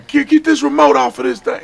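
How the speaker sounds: high, demanding order; bossy uncle. Retold or imitated. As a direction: order the kid around. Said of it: "He'd come in there".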